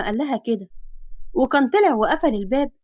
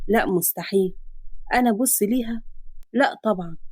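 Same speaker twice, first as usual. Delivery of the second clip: denying hero; 3 semitones lower, 3 dB quieter than usual. Acted. Man denying his feelings to himself. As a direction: lower man's voice, denying.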